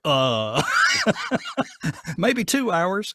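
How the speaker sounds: high, laughing stammer, caught off guard; laughing, flustered reply. Retold or imitated. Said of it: "And I'm like".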